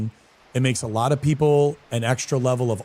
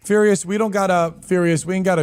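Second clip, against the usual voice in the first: raised voice; 6 semitones higher, 5 dB louder than usual. Real, not acted. Scolding chat member by name.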